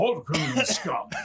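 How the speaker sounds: loud, high-pitched calling out. Speaker shows how he would sound as a guard in Oblivion, Oblivion guard voice. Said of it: "I would be there going".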